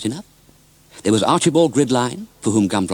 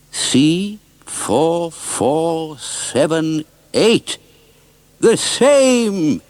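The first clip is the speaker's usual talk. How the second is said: excited shout; 6 semitones higher, much slower than usual. Acted. Mister Oldcastle finding the engine number, excited shout. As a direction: spell out the number, then burst out. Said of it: "he shouted".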